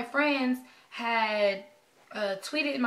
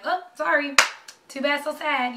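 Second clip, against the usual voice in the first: mock apology; 4 semitones higher, 6 dB louder than usual. Imitating officials turning her away.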